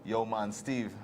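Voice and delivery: light Jamaican patois, lightly put on; easygoing Jamaican friend, only a hint of the accent. Seminary friend explains why he became a priest, lightly Jamaican accent. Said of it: "The way he pulled on that accent".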